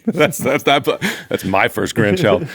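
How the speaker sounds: laughing through a playful claim. Real, not acted. Joking about owning the grandchild.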